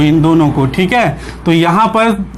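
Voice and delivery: ordinary talk, nothing marked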